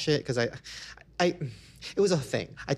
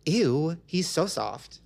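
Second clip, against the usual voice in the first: mock disgust; slower than usual. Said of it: "the other person going".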